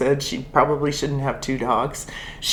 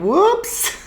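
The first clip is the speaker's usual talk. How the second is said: comic whoops; 9 semitones higher than usual. Real, not acted. Comic slip after number.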